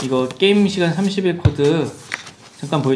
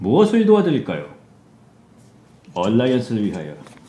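deep character voice, drops low, pitch swings; 4 semitones lower than usual. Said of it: "저번에 성대모사 했었잖아요".

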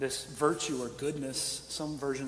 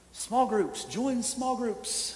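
loud, pitched-up, sarcastic announcer-style delivery; 9 semitones higher, 6 dB louder than usual. A man telling a story about his church, saying this sarcastically. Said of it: "I say this sarcastically".

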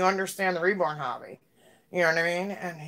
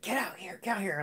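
soft, repeated half-whisper under the breath; 3 semitones higher, 6 dB quieter than usual. Retelling an old man calling his assistant out: imitating someone half-whispering. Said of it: "whispering to the guy".

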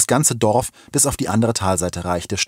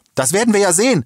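defiant, loud shout, very high pitch; 12 semitones higher, 5 dB louder than usual. A driver answers a policeman who says no one gets through: calling out. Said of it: "rief der Mann".

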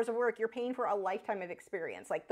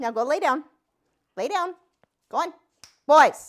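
very loud, booming, commanding shout; 4 semitones higher, 12 dB louder than usual. Telling the dogs to go lie down, yelling. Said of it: "Sorry for yelling right now".

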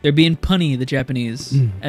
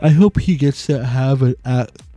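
words stretched out through a yawn. Discussing a show, yawning while speaking. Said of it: "I was yawning while I was saying that".

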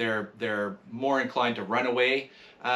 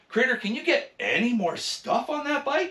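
put-on heavy sarcasm, pitched way up, very high; 12 semitones higher than usual. Retelling what people ask about the loaded bike: imitating a sarcastic question. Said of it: "Very sarcastically".

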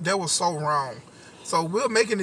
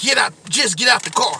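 mock loud, rude tone with nasty attitude; 3 semitones higher, 5 dB louder than usual. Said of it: "he said it just like that with a nasty attitude".

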